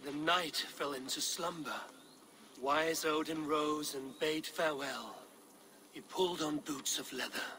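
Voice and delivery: saga recital. Acted. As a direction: chant it like an old skald. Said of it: "Sing me one of your sagas".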